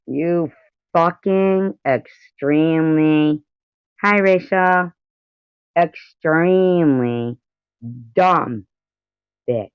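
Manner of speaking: slow, stretched-out insult; indignant, words spaced far apart; drawn-out indignation. Real, not acted. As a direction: drag the words out in disgust. Shocked, insulting the woman in clip.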